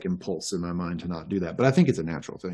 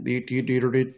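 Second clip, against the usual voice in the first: imitated Ocracoke accent; 4 semitones higher than usual. Shown as a demonstration. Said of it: "like that sort of thing".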